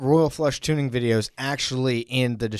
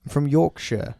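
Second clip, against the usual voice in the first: put-on Yorkshire accent; 3 semitones higher than usual. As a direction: show off a mock Yorkshire accent. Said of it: "I can do a pretty good British accent".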